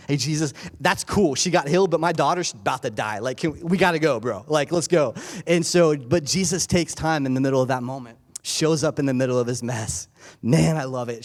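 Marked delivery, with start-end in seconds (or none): 0.1-5.1 impatient Jairus. Retold or imitated. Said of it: "if I'm Jairus, I'm like".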